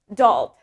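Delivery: "adult" stressed on the second syllable, a-DULT; American stress on second syllable. Shown as a demonstration. Teacher showing American "adult", stress on second syllable. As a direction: lean on the end of "adult". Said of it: "is in the second syllable".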